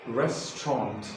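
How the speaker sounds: restaurant said "REST-ront", two syllables; correct British way. Shown as a demonstration. Teacher models the correct restaurant. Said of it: "its correct pronunciation is".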